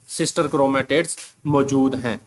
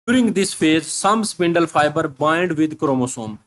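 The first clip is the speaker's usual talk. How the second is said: reads the English line very slowly, word by word; slow dictation reading; slow textbook reading; much slower than usual. Shown as a demonstration.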